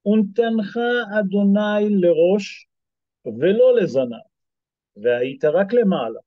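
reciting a Hebrew verse in a fluent reading cadence; scripture reading. Acted. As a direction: read the verse like the text in front of the class. Reads Torah verse in Hebrew.

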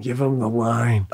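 a muted impression of him demanding the line; De Niro yelling. Friend retelling De Niro on set, a lightly voiced rasp. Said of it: "De Niro's yelling".

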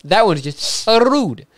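high, slow vampire drawl. Pretend. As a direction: stretch it out like a vampire. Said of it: "You sound like a vampire".

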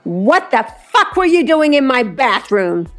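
high-pitched outraged demand; angry demand. A narrator's reading. Brianna confronts Oksana about her bathroom, angry demand. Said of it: "she demanded angrily".

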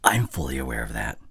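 contrite and deliberate; remorseful apology. Acted. Dramatic apology to girlfriend.

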